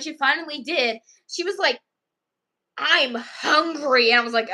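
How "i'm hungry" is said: slow, drawn-out mock whine; hungry, cranky girl. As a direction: imitate a cranky child, stretching each word. Imitates hungry angry girl.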